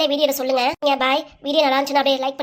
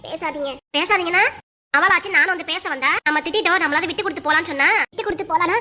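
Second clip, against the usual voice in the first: raised, heated scolding back and forth; mother daughter quarrel; 4 semitones higher than usual. Acted. Mother scolds her daughter over a secret lover, heated and raised. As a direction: argue like a mother catching her daughter in love.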